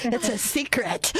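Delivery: slow, amused through laughter; laughing. Real, not acted. Host jokes with caller about a secret, laughing. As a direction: let giggles carry the words. Laughing at her own whispering.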